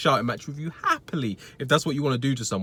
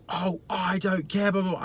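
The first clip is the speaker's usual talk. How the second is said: mock dismissive customer; 5 semitones higher than usual. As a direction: brush it off like a sulky customer. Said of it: "He's like".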